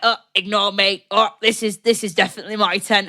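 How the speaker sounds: a hint of a shifty camper; shifty Jackdaw. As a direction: play it obviously suspicious. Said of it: "being obviously sus".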